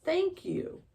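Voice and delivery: high, bubbly cry of thanks; squealed thanks to the fairy helper; cried out. A narrator's reading. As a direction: gush it out, overjoyed. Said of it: "cried Ellie".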